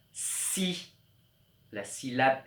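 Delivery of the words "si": whispered si. Shown as a demonstration. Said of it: "on entend le mot".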